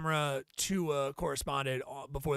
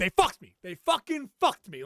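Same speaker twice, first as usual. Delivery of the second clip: loud, hollered, ranting yelling; 3 semitones higher, 3 dB louder than usual. Imitating a guy outside a bar after losing a bet: imitating a guy yelling. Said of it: "many a guy yell at me".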